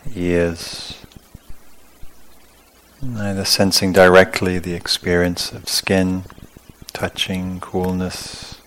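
calm, unhurried meditation guidance in short phrases; guided meditation. Real, not acted. Teacher leading sitters through awareness of skin, calm guided meditation. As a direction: guide them through the body, leaving long pauses. Leads a body-scan meditation.

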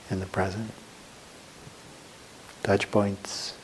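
unhurried meditation guidance with long pauses; guided meditation. Real, not acted. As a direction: guide them gently into the body, phrase by phrase. Leads a sitting meditation.

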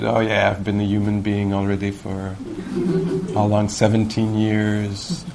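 mock world-weary drag, slowing down; blasé. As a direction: act mildly jaded, stretching the last words. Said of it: "not with a blasé attitude".

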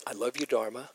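awkward, half-laughing "I love you, Dharma"; self-conscious laugh. Retold or imitated. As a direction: say it feeling silly, laughing it off. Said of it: "I felt completely stupid".

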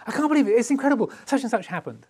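fast, high-pitched gush of amazement; excited outburst. Acted. Bounding into the office with big news, excited. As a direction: burst in bubbling over with news. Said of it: "if you're very excited about something".

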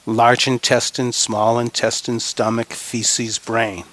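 measured list, falling on the last word; rhythmic recitation. Real, not acted. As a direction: lead a group recitation in an even rhythm. Leads group recitation of body parts.

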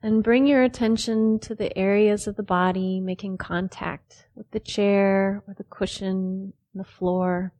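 unhurried phrases with long pauses between; measured meditation-teacher delivery; guided meditation. Real, not acted. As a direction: calmly guide them into the body, leaving space after each phrase.

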